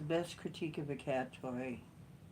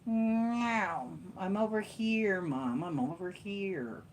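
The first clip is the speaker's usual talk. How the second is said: voicing the cat; 3 semitones higher, slower than usual. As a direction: meow it like the cat, then call out to Mom. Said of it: "you know".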